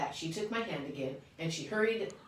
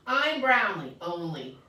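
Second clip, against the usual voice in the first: joyful shout; 7 dB louder, slower than usual. Acted. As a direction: shout the new name with pride. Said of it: "I shouted".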